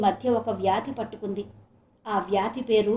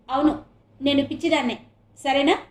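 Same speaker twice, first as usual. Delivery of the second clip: louder bitter comeback; agitated retort; 3 semitones higher, 4 dB louder than usual. Acted. Wife hits back at her husband, agitated. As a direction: throw it back, worked up. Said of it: "ఉద్రేకంగా అని".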